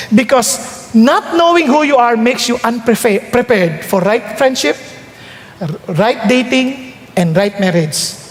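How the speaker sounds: slow, deliberate words; preacher stresses right friendship, dating, marriage slowly; slow emphasis. Real, not acted. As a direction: spell it out slowly. Slowed emphatic teaching.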